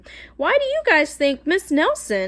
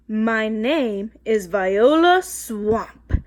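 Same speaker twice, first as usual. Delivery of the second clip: scratchy voice; 2 semitones lower, much slower than usual. Acted. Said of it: "said the lady in a scratchy voice".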